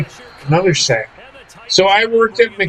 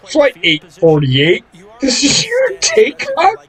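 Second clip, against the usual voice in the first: a hint of a pilot on the intercom, going much higher at the end; mock pilot announcement; 7 semitones higher than usual. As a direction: playfully announce a flight over the drive-thru speaker. Mock pilot announcement at drive-thru.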